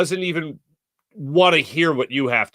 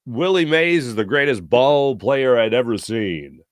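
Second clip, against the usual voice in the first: a hint of an old announcer savoring the words; Harry Kalas. Imitating the broadcaster's voice for the nervous young TV worker, lightly. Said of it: "in Harry Kalas's voice".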